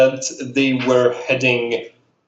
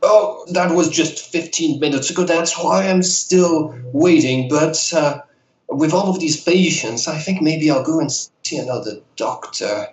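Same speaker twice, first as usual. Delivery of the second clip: put-on old lady voice; 2 semitones higher than usual. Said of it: "I love your old lady voice".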